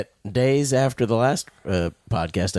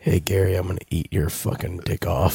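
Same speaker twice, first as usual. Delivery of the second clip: low husky seductive voice; sexy voice; 5 semitones lower than usual. Shown as a demonstration. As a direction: growl it low and sultry. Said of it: "Say something, Sean".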